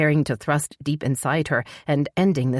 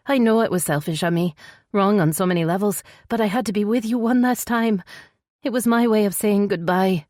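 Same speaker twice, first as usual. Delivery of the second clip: higher-pitched female character, upset; pleading, high-pitched apology; sorrowful heroine; 6 semitones higher than usual. Acted. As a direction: confess a painful farewell in a raised voice.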